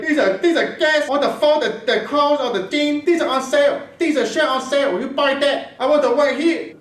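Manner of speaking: high-pitched put-on Asian accent; Asian girl accent. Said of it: "Asian girl. So I can't be like".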